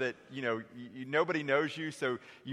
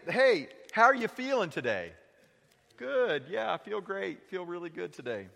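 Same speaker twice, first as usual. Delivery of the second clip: breezy higher voice, brushing it off; fake cheerful; 4 semitones higher than usual. Preacher mimicking a churchgoer, light and higher. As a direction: put on a bright front.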